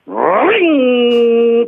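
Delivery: high drawn-out engine whine; motorbike revving. Retold or imitated. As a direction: rev like a modded motorbike. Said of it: "불법 오토바이 달리는 소리".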